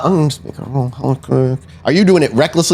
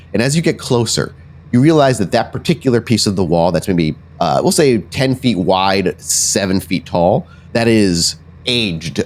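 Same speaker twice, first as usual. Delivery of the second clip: measured, descriptive scene setting; storytelling at the game table; game master narration; 4 semitones lower than usual. Acted. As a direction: lay out the scene deliberately, lingering on details.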